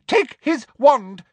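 high, loud, slow command; barked order. Acted. Umbridge orders someone to disarm Harry, barking. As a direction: bark it like an officer. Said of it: "she barked at someone".

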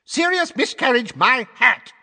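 very high, loud scornful shout; top of his voice. A narrator's reading. Fudge shouts down Dumbledore's argument, very high and loud. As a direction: bellow it like an outraged minister. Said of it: "at the top of his voice".

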